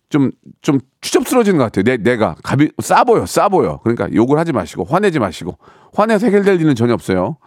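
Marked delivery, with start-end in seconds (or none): none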